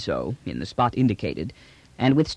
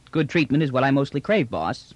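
higher-pitched, easy trader's line, dropping on "boss"; lightly voiced trader angling for favor; slangy trader; 3 semitones higher than usual. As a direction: toss it off to the boss. Trader's phrase echoed by the general.

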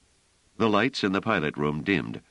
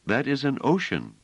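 soothing; 9 semitones higher than usual. A narrator's reading. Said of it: "said Bliss soothingly".

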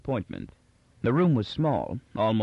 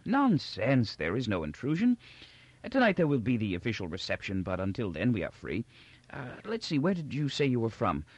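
put-on doddering old Emperor, gracious; 2 semitones higher than usual. Old Emperor welcomes visitors from outer provinces, gracious and doddering. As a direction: ramble kindly like a forgetful old ruler.

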